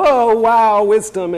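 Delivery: mock admiring girls. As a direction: play a fawning admirer, tongue in cheek. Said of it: "you girls just with your fans go".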